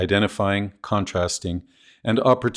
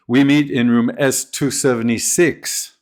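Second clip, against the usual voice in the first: seventy-six stressed as the correction; contrastive stress. Shown as a demonstration. Teacher correcting a room number, stress on seventy-six. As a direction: hit seventy-six firmly. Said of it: "Prominence can emphasize contrast".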